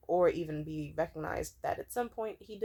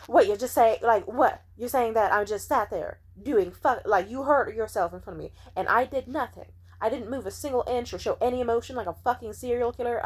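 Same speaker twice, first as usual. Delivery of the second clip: loud, offended protest; offended ranting; 2 semitones higher, 4 dB louder than usual. Retold or imitated. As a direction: push back, insulted. Retelling friend's defensive outburst.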